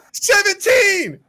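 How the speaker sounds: very high, drawn-out yell; exasperated shout. Real, not acted. Player announces a bad roll, high shout. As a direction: cry it out high and long.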